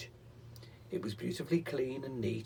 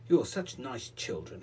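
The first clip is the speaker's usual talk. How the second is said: happily; 3 dB louder than usual. Acted. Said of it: "he said happily".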